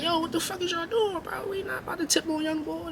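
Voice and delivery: high, put-on voice of a schoolyard tough; imitating a rival.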